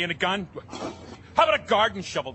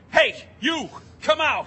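high loud call; 8 semitones higher, 5 dB louder than usual. Acted. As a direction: shout toward the back room. Calling into back room.

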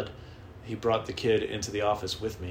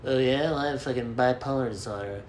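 mocking brag; 3 semitones higher than usual. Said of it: "wear their fucking mental illness".

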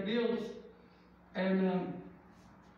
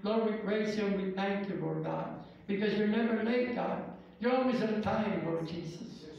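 fervent pastor's prayer, rolling and steady. Acted. Pastor leading the church in prayer, fervent. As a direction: pray aloud over the congregation.

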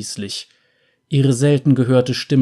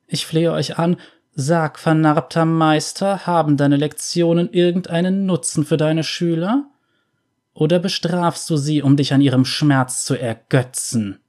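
lightly higher, measured veiled woman; a hint of a cold, all-seeing veiled seer; lightly voiced mysterious veiled woman; 5 semitones higher than usual.

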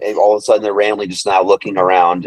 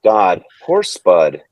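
slow, lower, flat "God, poor Spud" with a falling "poor"; mock-sad actress line, dragged out low; deadpan mock sorrow; 4 semitones lower, much slower than usual. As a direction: imitate a limp, half-hearted grief like stepping on an ant. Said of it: "she said it like this".

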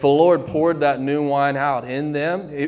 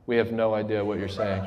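confused disciples, laughing; 6 semitones lower, 7 dB quieter than usual. Retold or imitated.

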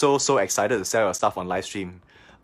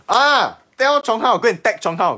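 excited call; 10 semitones higher, 7 dB louder than usual. Real, not acted. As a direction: call it out gleefully. Teasing call to tag friend.

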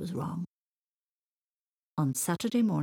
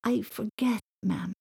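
slightly high, apologetic protest; pleading explanation; 4 semitones higher than usual. A narrator's reading. Boy explains himself to his mam, pleading. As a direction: plead your case to mother. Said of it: "he tried to explain".

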